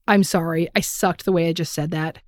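calm apology. Shown as a demonstration. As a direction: gently own the mistake to your partner. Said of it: "catch the bullet and say".

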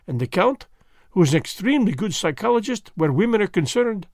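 precise, amused detective explaining his method; a hint of a French-tinged gentleman; Poirot voice.

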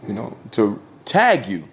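lightly put-on African accent. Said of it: "he said in his African voice".

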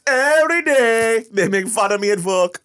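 high, laughing protest. Real, not acted. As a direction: laugh through the complaint. Laughing complaint.

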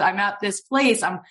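imitating someone flustered on the phone, high pitched; high, nervous stammered explanation, acted out; mock shaking. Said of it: "and she's, like, shaking".

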